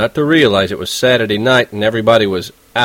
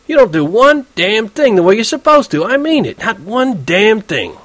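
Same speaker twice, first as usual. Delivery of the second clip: furious berating; 12 semitones higher than usual. Acted. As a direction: lay into him, hammering the last words.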